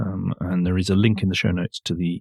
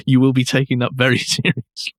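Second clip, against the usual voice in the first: chuckling mid-sentence; words broken by real laughter; amused, laughing while mocking the promise; laughing through words; 2 semitones higher than usual. Real, not acted. Mocks the company's promise.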